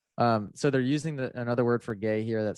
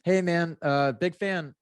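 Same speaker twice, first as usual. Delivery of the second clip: put-on sheepish teens; 8 semitones higher, slower than usual. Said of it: "And they go".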